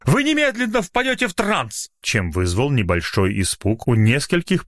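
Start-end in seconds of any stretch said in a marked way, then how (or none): 0.0-1.9 high, hollow shouted command; loud cry. Acted. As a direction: cry it out to stun them. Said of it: "громко вскричал". (громко вскричал)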